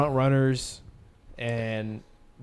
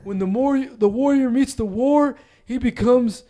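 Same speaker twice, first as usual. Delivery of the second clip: epic speech voice; 11 semitones higher, 11 dB louder than usual. Pretend. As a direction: declaim it like an epic hero. Dramatic mock speech.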